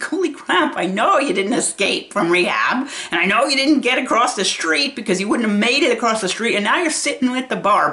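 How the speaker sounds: holy crap, can't believe this; incredulous. Retold or imitated. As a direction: react in shocked disbelief. Her own incredulous reaction.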